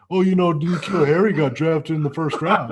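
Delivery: impression of Jake. Friend teasing Jake by imitating his take, laughing. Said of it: "That impression is a".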